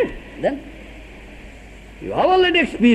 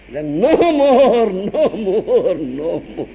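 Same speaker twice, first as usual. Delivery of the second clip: laughing mock plea; 4 dB louder, much slower than usual. Mocking the chastened man, laughing.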